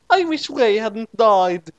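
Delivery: high, slow hammed-up wail; mock sad cry. A narrator's reading. Naomi mourns Ray, hammed-up wail. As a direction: wail it melodramatically. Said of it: "cried Naomi sadly".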